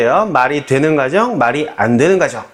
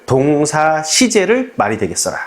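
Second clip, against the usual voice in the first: slow, deliberate repetition of the rule; a slow, steady drill of the rule; repeat rule. Shown as a demonstration. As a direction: repeat it slowly so it sticks. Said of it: "외웁시다".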